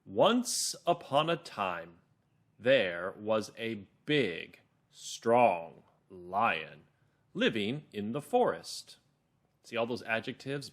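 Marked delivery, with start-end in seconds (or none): 0.0-9.0 slow, measured storytelling, word by word; calm, clear narrator. Shown as a demonstration. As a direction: read it slowly and clearly for children. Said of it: "my narrator voice is calm and clear".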